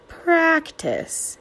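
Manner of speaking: dad coaxing his daughter to keep practicing; gentle pleading. A narrator's reading. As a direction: plead kindly. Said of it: "he pleads over and over".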